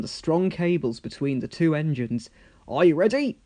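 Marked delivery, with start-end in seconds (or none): 2.7-3.4 louder call. Acted. Sir Topham Hatt calling to the engines, loud. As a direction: call across the site. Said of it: "called Sir Topham Hatt".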